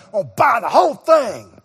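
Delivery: firm declaration. Retold or imitated. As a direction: plant the claim, no doubt. Repeating his bold decision.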